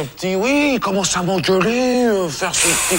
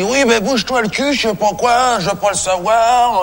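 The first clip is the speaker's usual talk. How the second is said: higher-pitched, lightly acted scolding; mock telling-off; 4 semitones higher than usual. Caretaker imitates the little one ordering him around, mock telling-off. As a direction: imitate someone impatiently ordering you about. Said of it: "il commence à m'engueuler".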